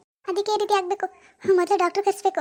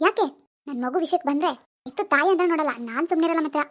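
disturbed daughter; 2 semitones lower than usual. Acted. Daughter Swathi's role voice.

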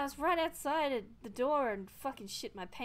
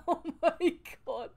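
loud slow shaken gasp; shaken exclamation; 5 semitones higher, 10 dB louder than usual. Real, not acted. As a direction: still rattled from the scare. Recovering from fright.

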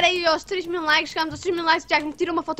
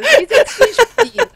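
echoes the line back much higher and louder; sing-song taunt, high and loud; mocking echo; 9 semitones higher, 8 dB louder than usual. Real, not acted. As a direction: throw his own words back at him, teasing. Mocking a teammate's repeated line.

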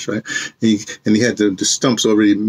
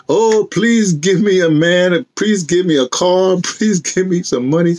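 higher, slow whiny pleading; mock begging; 5 semitones higher, slower than usual. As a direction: ham up a needy prayer, higher. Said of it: "Don't be petitioning for something".

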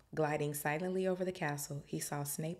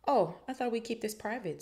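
higher-pitched, cool disdain; icy; 6 semitones higher than usual. A narrator's reading. Snape confronts stuttering Quirrell in the forest, icy. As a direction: speak with icy reproach. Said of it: "his voice icy".

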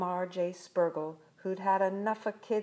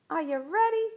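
high, loud rousing question; launch call; 10 semitones higher, 6 dB louder, faster than usual. A narrator's reading. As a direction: call out to the crew before take-off. Girl calls before rocket launch.

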